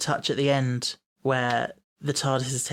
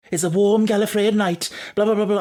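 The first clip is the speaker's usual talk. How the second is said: lilting, higher mock Welsh accent; 6 semitones higher, 4 dB louder than usual. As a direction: quote it in an accidental Welsh lilt. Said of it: "why I did a Welsh accent".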